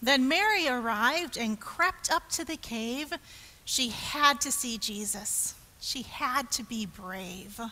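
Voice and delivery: dramatic start, settling into hushed suspense; expressive rhyming read-aloud, easing down; children's story narration. A narrator's reading. Telling children of Mary at the cave, expressive narration.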